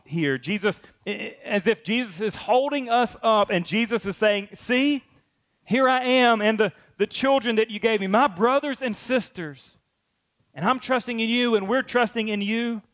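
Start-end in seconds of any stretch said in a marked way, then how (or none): 4.5-12.8 bright, lifted proud voice; joyful proud announcing. Acted. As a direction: present them with proud joy. Jesus voiced holding us up.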